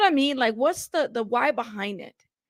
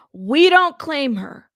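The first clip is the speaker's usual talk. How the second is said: loud, slow proclamation; emphatic disowning; 3 semitones higher, 6 dB louder, slower than usual. Acted. Host repeating a viewer's disowning line, slow and emphatic. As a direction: draw it out loudly, word by word.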